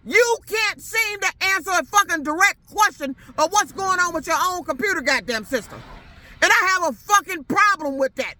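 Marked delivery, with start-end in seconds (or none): 0.1-5.8 heated, raised shout of frustration; really fed up and yelling it out; a furious customer shouting down the line; angry. Real, not acted. Angry rant at the company.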